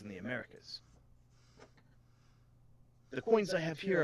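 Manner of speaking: lightly voiced, lilting coin expert; a hint of island accent; accented shopkeeper. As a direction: explain it with a put-on lilt. Continues Miss Sadi's accented voice.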